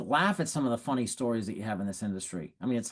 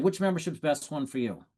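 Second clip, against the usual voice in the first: confident close. Shown as a demonstration. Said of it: "And you say it confidently".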